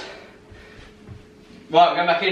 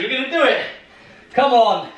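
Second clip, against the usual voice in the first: laughing; 5 semitones higher than usual. Real, not acted. Laughing through exhaustion.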